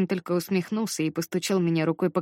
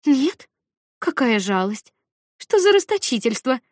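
put-on playful girl voice; 6 semitones higher, 6 dB louder than usual. Anika mocking, high excited voice.

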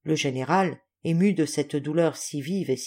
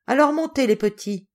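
smiling; 6 semitones higher, 4 dB louder than usual. A narrator's reading. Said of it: "dit le général en souriant".

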